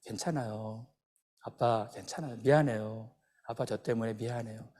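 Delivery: low, subdued everyday voice; matter-of-fact reassurance. Retold or imitated. Injured son brushing off his pain to dad, quiet and everyday. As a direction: play it down softly and low, imitating a stoic boy. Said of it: "늘 일상적으로".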